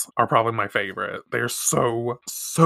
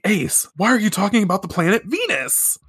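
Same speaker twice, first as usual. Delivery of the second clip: higher put-on cat voice, puzzled; puzzled Artemis; 8 semitones higher than usual. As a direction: Artemis wondering to himself. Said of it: "Artemis is thinking".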